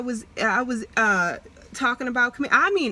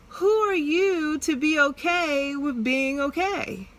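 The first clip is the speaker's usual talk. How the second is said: tearful; 4 semitones higher than usual. Real, not acted. Voicing her inner doubt, tearful.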